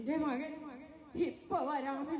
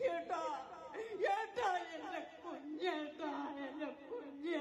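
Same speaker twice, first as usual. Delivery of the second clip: sobbing plea; 4 dB quieter than usual. Acted. Sister begs brother for baby.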